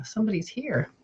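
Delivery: hushed, breathless whisper of a sudden presence. Retold or imitated. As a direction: breathe it out, voiceless, spooked. Sensing a presence in car.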